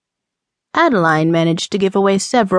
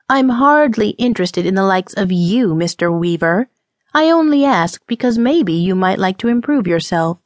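prim indignant woman. Acted. Indignant woman rebuffs gambler.

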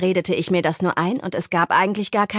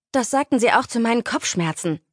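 higher, small squeaky voice; 5 semitones higher than usual. Acted. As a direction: squeak it out timidly. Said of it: "mit piepsiger Stimme".

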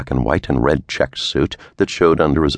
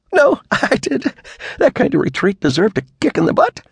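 laughing. A narrator's reading. Secretary confessing she slammed the door, laughing. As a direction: laugh it out proudly. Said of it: "Clara laughed".

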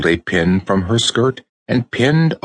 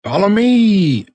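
high, louder, slow call; rallying cry; 14 semitones higher, 4 dB louder than usual. A narrator's reading. Raggedy Ann calls the dolls to follow, loud. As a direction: lead the charge with a cry. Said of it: "she cried".

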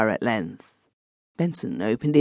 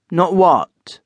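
sharp, louder demand; fierce demand; 6 semitones higher, 6 dB louder than usual. A narrator's reading. Benson rounding on his cousin, fierce. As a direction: challenge him hard. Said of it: "turning upon him fiercely".

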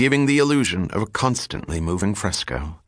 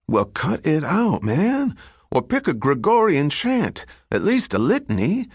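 exasperated scolding; 9 semitones higher than usual. Acted. Aide scolds the singing pope.

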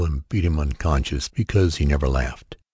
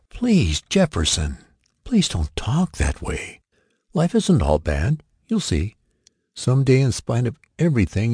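pleading mother; 6 semitones higher than usual. A narrator's reading. A mother begs her son to stop, higher, pleading. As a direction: plead with him, lift the voice like his mother.

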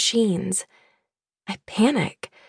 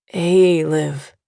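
gentle father calling his daughter's name; said gently; 4 semitones lower, 4 dB louder than usual. A narrator's reading. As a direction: ease her name out tenderly. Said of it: "another voice says gently".

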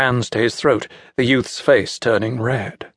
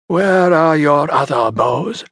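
Centaur demanding; 4 semitones higher, slower than usual. Acted. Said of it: "Centaur asked".

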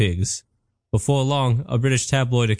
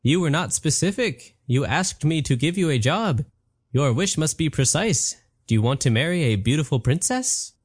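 a genie correcting a careless wish; genie Patrick; 3 semitones higher than usual. Acted. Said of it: "Patrick said".

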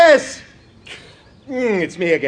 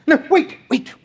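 higher, louder no wait; urgent call; 11 semitones higher, 5 dB louder, slower than usual. Acted. Tourist calling the composer back, loud urgent call. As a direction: call him back before he leaves.

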